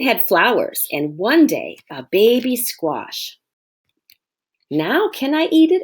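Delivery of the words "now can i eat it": put-on high, hopeful little boy; impatient child. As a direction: plead like a hungry kid. Impatient Oliver asks again.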